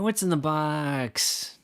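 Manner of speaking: slow, pleading movie-quote delivery; imitating Brad Pitt. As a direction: drag out the famous line. Quoting the famous Seven line.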